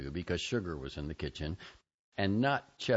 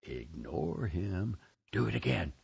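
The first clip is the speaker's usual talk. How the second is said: tempting inner voice. Retold or imitated. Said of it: "Bartonella said".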